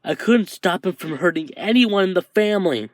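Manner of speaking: guilt spilling out until it breaks loose; anguished confession. Acted. Izuku blaming himself to Shoto, anguished and rising.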